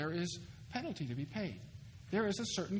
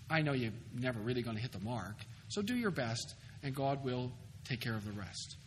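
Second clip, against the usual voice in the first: lower, easygoing imagined reassurance; acted low-key reassurance; mock reassurance; 6 semitones lower, 4 dB quieter than usual. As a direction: let them off the hook, casually. Voicing what Jesus did not say.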